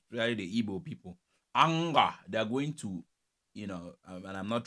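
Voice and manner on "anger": imitating a confident, authoritative "Anger"; a raised, full-chested mock-authoritative call; imitated Nigerian authority. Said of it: "speak with, you know, authority".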